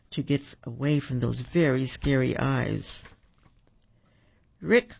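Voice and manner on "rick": high-pitched call for a lost brother. A narrator's reading. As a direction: call the name out, searching. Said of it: "called Rack".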